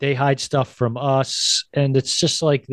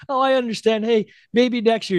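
high, hopeful mock voice; imitating Whoopi; 8 semitones higher than usual. Whoopi hoping for next year, high hopeful mimicry. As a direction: stay cheerful despite the rejection. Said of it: "she's like".

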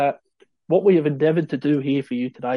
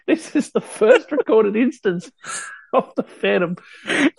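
high, loud, slow wonder; excited reveal; 8 semitones higher, 5 dB louder, slower than usual. Real, not acted. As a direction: build it up with glee. Dramatic reveal, laughing.

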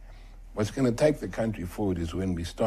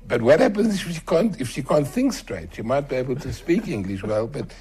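emphatic retort; 6 semitones higher, 5 dB louder than usual. Retold or imitated. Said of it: "So I say".

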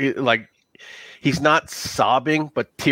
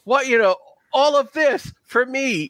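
desperate NPC; 10 semitones higher than usual. Acted. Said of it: "He goes".

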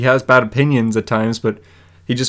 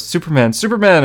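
mock excited boy; 6 semitones higher than usual. Retold happy boy calling his hero.

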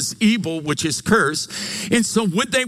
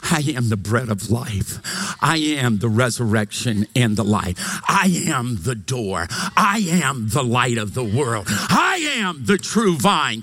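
building proclamation; 6 semitones lower than usual. Acted. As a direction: build each declaration toward a preacher's shout. Preacher builds list of I ams.

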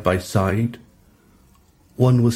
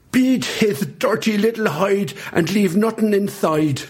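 thundering roar; 9 semitones higher than usual. A narrator's reading. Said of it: "Big Sister's thundering roar".

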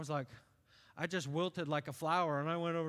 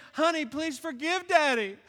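gentle apology; 5 semitones higher, 5 dB louder than usual. Retold or imitated. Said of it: "You can just say".

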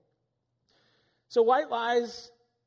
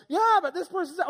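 questioner; 10 semitones higher, 5 dB louder than usual. Retold or imitated. Questioning someone caught lying.

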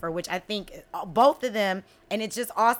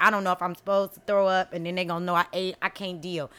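panicked rush; 5 semitones lower, faster than usual. Retold or imitated. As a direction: race through the worry, then trail off. Panicked inner thoughts hiding vomit.

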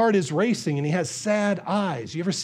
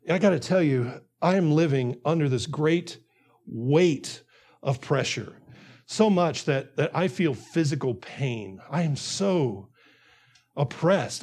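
low, heavy-hearted confiding; burdened confession; 4 semitones lower than usual. Acted. Preacher as David opening up over coffee, low and burdened. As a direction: confide under a great weight, pausing heavily.

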